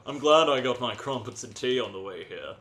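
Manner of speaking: hammed-up English gent; comic English character voice; mock English accent. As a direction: lay the English accent on thick. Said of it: "I am rather English".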